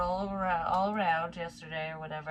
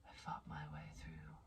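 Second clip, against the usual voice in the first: hushed whisper, barely there; soft whispered repeat of the quote; 14 semitones lower, 16 dB quieter than usual. Retold or imitated. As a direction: whisper the line to yourself. Repeats the quote under breath.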